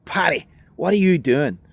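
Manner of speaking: high, loud alarmed cry of his name; alarmed shout. Retold or imitated. Woman behind the counter shouting at Paddy, alarmed. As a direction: yell out in shock at the gunman. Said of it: "let's say she was like".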